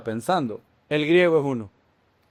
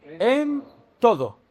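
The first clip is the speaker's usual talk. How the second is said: slow echo; 5 semitones higher, slower than usual. Shown as a demonstration. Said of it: "¿Cómo?".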